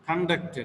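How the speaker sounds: conduct stressed on -duct; second-syllable stress. Shown as a demonstration. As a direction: model conduct as con-DUCT. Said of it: "second syllable receives the stress points".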